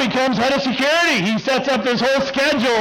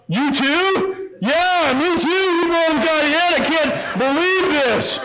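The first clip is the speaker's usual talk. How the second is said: mock surprise; 6 semitones higher, slower than usual. Fake surprise to hallmates, pitch high.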